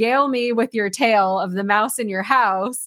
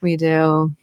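whispering; 6 semitones lower than usual. Real, not acted. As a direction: drop to a breathy whisper. Playful whispered aside.

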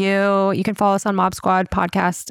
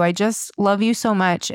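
ordinary talk

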